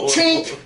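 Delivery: high, loud clicking chink; high chink sound effect. Retold or imitated. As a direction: snap it out like metal.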